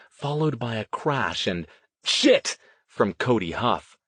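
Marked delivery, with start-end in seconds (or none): 2.0-2.6 high, sudden exclamation; startled yell. A narrator's reading. Huff falling with a crash, startled yell. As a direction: blurt it out in alarm.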